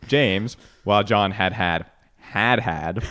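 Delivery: slow "James", pause, drawn-out "had, Had had"; swapped emphasis. Shown as a demonstration. Host offering the riddle's second reading, slow regrouped "Had had". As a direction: set "James" apart and group "had, Had had" slowly. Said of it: "Or you could swap 'em and say".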